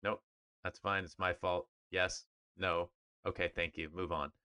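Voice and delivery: lightly imitated deadpan press-conference answers; a hint of a curt, unbothered coach dodging questions; Bill Belichick. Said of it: "just Bill Belichick 'em".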